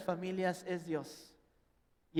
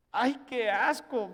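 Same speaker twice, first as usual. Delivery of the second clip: mock disgust; 3 semitones higher, 5 dB louder, slower than usual. Disgust at bathing parent.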